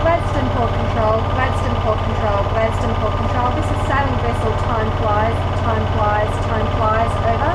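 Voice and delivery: formal VHF radio hail; marine radio. Real, not acted. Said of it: "I have to radio".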